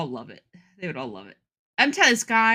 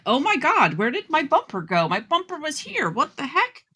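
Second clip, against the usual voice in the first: fake shock; 4 semitones higher than usual. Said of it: "then you act shocked".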